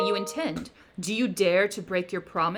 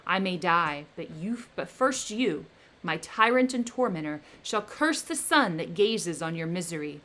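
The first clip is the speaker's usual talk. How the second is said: loud, menacing creature; the creature threatening his maker, loud; vengeful threat; 3 dB louder than usual. Acted. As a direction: vow revenge with rising menace. Creature threatens Victor with revenge.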